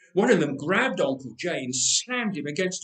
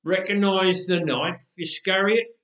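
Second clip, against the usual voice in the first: slow mocking sneer; 2 semitones higher, 4 dB louder than usual. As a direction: taunt him with the blade. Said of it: "he sneered".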